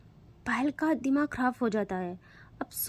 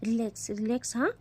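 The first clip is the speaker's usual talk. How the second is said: lovingly. Acted. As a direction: soothe a frightened friend. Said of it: "बहुत प्यार से कहती है".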